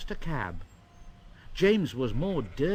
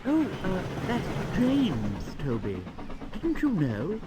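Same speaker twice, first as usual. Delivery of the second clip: higher, lightly voiced young engine; cheeky little engine; 5 semitones higher than usual. A narrator's reading. Percy tells Toby it is James, higher cheeky voice. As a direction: answer brightly, teasing.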